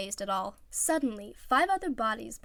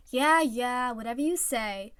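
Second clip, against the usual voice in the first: louder careless yeah yeah; dismissive; 3 semitones higher, 5 dB louder than usual. Acted. Teammate brushing off Iwazumi, dismissive. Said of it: "waved dismissively".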